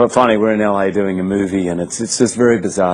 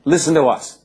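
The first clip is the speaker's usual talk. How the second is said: higher, commanding mock hush to the table; imitating Oprah; 5 semitones higher than usual. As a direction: playfully boss the room like a hostess. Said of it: "And then she goes".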